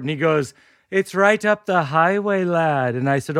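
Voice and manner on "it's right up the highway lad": put-on amateur comic Irish accent; put-on Irish brogue; awful Irish accent. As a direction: play a Dubliner with a badly faked Irish lilt. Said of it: "for my awful accent".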